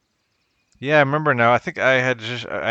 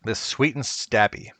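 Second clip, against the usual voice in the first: drawn out, slow and showy; slow showy dish name; slower than usual. Pretend. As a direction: present the dish name slowly. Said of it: "I call it".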